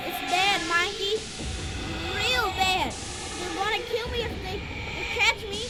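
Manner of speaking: put-on very high, soft child's plea; small, faint cry for help; frightened child. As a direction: plead like a scared little boy.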